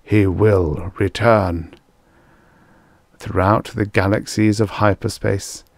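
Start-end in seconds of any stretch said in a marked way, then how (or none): 0.0-1.7 slow, measured congregational response; intoning. A narrator's reading. People replying to their priests, intoning. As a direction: answer solemnly, word by word. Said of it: "intone in reply".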